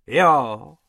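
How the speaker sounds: loud, slow menacing retort; roared threat. A narrator's reading. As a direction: bellow it at the rabbits, drawn out. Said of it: "zařval pan Hrubec".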